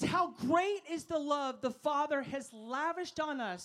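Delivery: slow, weighty reading of the verse; scripture reading. Real, not acted. Preacher reading the verse slowly to the congregation. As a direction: lean on every word. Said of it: "It says".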